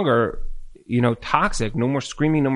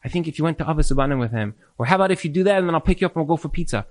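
sweet suggestion; much faster than usual. Acted. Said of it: "If you wanna help me change, you'll say".

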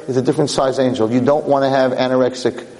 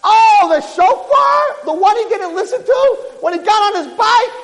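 high, slow loud sneer; mocking Satan; 4 dB louder than usual. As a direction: taunt him with his failure. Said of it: "And the Satan's like".

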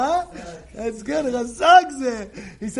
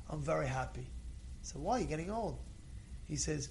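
put-on old man calm reply; 5 semitones lower, 9 dB quieter than usual. Old man answers calmly.

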